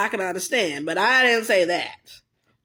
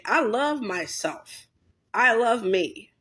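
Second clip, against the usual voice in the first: slow sincere; slower than usual. Real, not acted. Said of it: "Love yourself".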